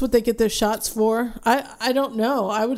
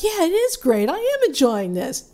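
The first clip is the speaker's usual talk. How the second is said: high mock-enthusiastic voice of a gullible fan; mock sheeple; 6 semitones higher than usual. Imitating the sheeple who praise a bad show, mock enthusiasm. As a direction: imitate a follower insisting they like it. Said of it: "the sheeple out there are like".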